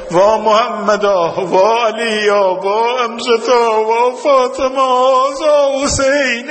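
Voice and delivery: slow, drawn-out lament, pitched high; mourning cry. Retold or imitated. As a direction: wail each name as a grieving cry. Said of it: "حضرت زینب فریاد زد".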